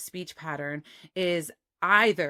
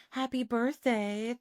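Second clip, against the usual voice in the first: airy, breathy and higher, slow; Marilyn Monroe breathy; 6 semitones higher, slower than usual. Retold or imitated. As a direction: sigh it out like a film star. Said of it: "this kind of very breathy sound".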